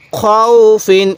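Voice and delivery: খাউফিন with the opening glide held long; drawn-out recitation. Shown as a demonstration. Teacher showing how to read it, খাউফিন drawn out. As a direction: stretch খাউফিন slowly and evenly. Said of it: "এরকমভাবে পড়ব".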